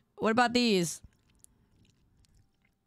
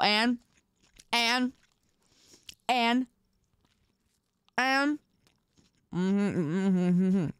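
mouth full; 2 semitones lower, slower than usual. Real, not acted. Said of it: "I am talking with my mouth full".

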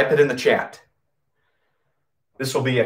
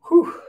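winded whew. Real, not acted. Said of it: "Let me catch my breath".

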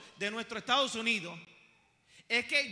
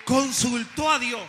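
loud, slow preacher's declaration; emphatic proclamation; 10 dB louder, slower than usual. Real, not acted. Preacher telling what the king did, slow and forceful. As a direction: proclaim it, drawing out each word.

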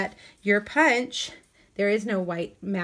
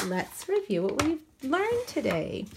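lightly sing-song teacher voice, slightly higher; kindergarten teacher voice; 5 semitones higher than usual. Pretend. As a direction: talk like a cheerful kindergarten teacher. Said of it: "In my teacher voice".

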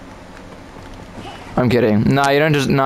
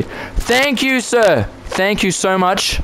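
hammed-up gratitude; 4 semitones higher, slower than usual. Effusive thanks to another player.

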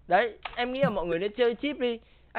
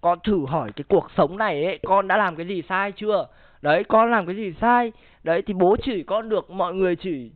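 louder, hammed-up whiny son begging his dad; mock pleading son; 4 dB louder than usual. Streamer playing a son begging bố Độ to stop scolding him, mock whiny plea. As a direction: play the wronged kid protesting to his father, half in jest.

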